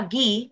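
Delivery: "gui" stressed, with a long accented i; "gui" picked out as the accented syllable. Shown as a demonstration. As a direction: lean on the i of "gui". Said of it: "cuando acentuamos la palabra".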